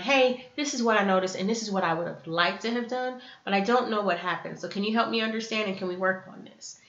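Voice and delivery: even, collaborative appeal; non-blaming. Acted. Asking someone to work on it together, calm and non-blaming. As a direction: ask for help calmly, no accusation. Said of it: "and the energy behind".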